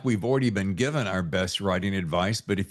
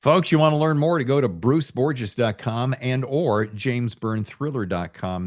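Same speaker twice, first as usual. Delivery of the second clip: host plug; 3 dB louder than usual. Real, not acted. Host plugs websites.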